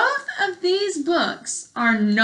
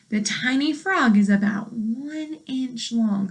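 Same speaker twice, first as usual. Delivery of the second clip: clear, even read-aloud voice for a class; reading to children. Acted. Teacher reading a frog book to her class, clear read-aloud.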